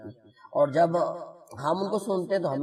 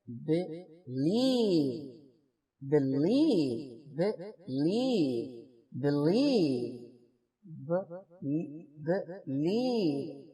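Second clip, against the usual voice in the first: believe with the stress on the second syllable, drawn out; slow stress drill on believe, second beat; stress demo; much slower than usual. Shown as a demonstration. Teacher drilling students, believe stressed on the last syllable. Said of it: "یہاں پہ یہ دیکھیں".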